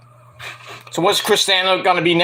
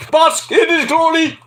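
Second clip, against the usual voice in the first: hammed-up catchphrase; 10 semitones higher than usual. Hamming up the catchphrase.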